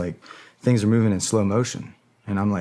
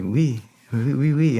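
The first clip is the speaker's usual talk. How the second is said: imitating soldiers; 5 semitones higher, 4 dB louder, slower than usual. Imitating confused Malian soldiers.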